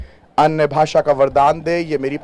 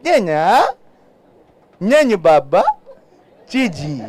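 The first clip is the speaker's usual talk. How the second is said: cooing baby syllables, lightly voiced; baby babble. Shown as a demonstration. Pastor mimics an infant's babble for the congregation, cooing. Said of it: "क्या समझ में आएगा?".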